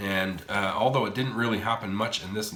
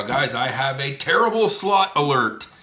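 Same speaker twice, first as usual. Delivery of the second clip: louder alarm-bell announcement, stress on terrible; loud alert announcement; 5 semitones higher, 7 dB louder than usual. Real, not acted. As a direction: sound the alarm on this machine. Announcing a bad machine.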